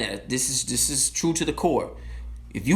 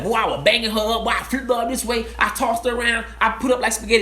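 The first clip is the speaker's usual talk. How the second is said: bragging guy talk; 5 semitones higher, faster than usual. Retold or imitated. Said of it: "we be like".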